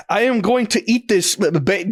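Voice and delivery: stuttering like a skipping clip; glitchy Alfred impression. Shown as a demonstration. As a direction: repeat the syllable like a glitching video. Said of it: "Okay, never mind".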